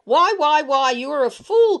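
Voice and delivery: put-on shouting, scolding the child in a rage; mother yells at her pestering son, angry; angry cry. A narrator's reading. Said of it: "cried my mother".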